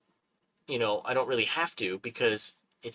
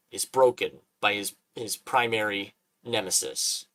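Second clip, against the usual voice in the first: pitch demo. Shown as a demonstration. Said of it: "the way I would say it".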